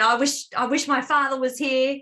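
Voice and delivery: lightly voiced little girl wishing; a hint of a small child pleading; little girl's way. To her stepfather, a mild little girl's plea. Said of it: "in a little girl's way".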